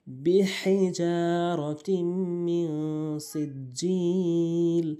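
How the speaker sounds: chanted বিহিজারাতিম with throaty h, long vowels; correct big ha. Shown as a demonstration. Teacher reciting the corrected verse, throaty h in বিহিজারাতিম. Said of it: "বড় হা এনে উচ্চারণ করতে হবে".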